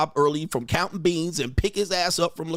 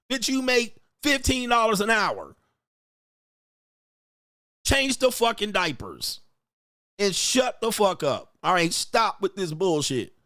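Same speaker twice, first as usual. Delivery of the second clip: mock furious rant; 5 semitones higher than usual. Husband ranting at his wife over diapers and dishes, outraged. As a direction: play the husband blowing up over chores.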